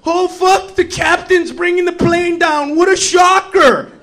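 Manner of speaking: mock shock. Passengers react to the captain bringing the plane down, mock shock. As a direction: play at being shocked by the pilot.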